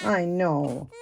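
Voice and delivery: drawn-out, cooing sympathy; soothing. Pretend. Mother to crying baby doll, gently soothing. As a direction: soothe a fussing baby, stretching the words.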